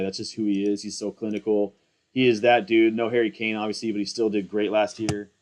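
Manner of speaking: low mumbled words under breath; mumbling. Real, not acted. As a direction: mumble it to yourself. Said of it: "And I'm mumbling".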